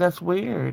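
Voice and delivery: ordinary talk, nothing marked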